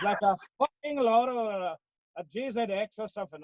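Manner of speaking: lightly put-on Welsh accent; mock Welsh accent. Max suggesting a car to his friend, mock Welsh accent. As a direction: imitate him with a Welsh lilt. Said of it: "so I'll do a Welsh one instead".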